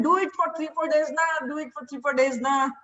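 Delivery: easy South Indian lilt with na at the end; South Indian accent. Retold or imitated. Healer insists on three days in a South Indian accent. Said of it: "in his South Indian accent".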